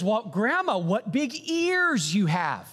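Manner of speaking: Little Red Riding Hood. Retold or imitated. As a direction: play the innocent girl, drawn out. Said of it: "Little Red Riding Hood ... says".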